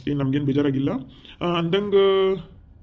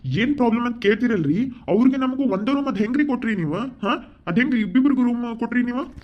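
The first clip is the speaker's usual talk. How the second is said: raised pitch, pressing questions; indignant complaint; 4 semitones higher than usual. Acted. Guest berating the manager over a double booking, indignant. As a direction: scold with insistent questions.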